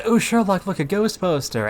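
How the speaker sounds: high, loud imitation of John's shout; retold excited shout. Retelling John spotting the poster to chat, imitated shout. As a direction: call it out high and loud, mimicking him. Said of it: "he just shouted".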